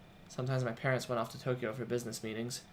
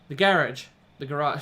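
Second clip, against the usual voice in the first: put-on "The garage." with a British accent, "garage" as GA-rahj; 3 semitones higher, 9 dB louder than usual. Reader slips into a British accent on "The garage.". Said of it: "That's my British accent slipping in".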